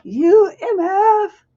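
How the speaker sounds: put-on loud, drawn-out British-accented cussing; high, hammed-up British accent; slow, playful cuss in fake British; mock British accent. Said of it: "she said with a British accent".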